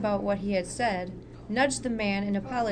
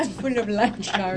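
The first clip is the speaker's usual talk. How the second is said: pirate voice; 4 dB louder than usual. Retold or imitated. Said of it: "sounds like a pirate".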